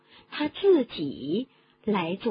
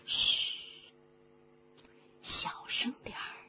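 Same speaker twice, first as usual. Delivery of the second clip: urgent shushing under the breath; hushing whisper; 6 semitones higher, 10 dB quieter than usual. Acted. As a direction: whisper to shush a noisy friend. Shushing someone who spoke too loudly. (压低声音，轻声制止)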